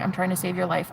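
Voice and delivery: hushed plea. Retold or imitated. Hushing the newcomer.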